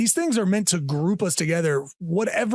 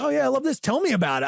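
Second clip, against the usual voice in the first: eager fan; 7 semitones higher, faster than usual. Pretend. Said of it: "we can all just be like".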